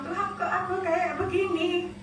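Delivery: put-on slow, soft, small child's plea to God; tearful prayer. Crying child asking God why, softly. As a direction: let it come out as a quiet weepy complaint. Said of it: "Dia bilang".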